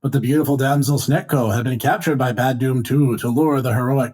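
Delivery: over-the-top recap narrator voice; dramatic narrator. Acted. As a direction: announce it like an old serial. Recap narration of a cartoon serial.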